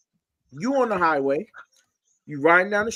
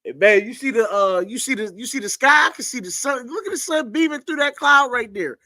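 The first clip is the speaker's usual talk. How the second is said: fake casual; 5 semitones higher than usual. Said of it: "I gotta look as inconspicuous as possible".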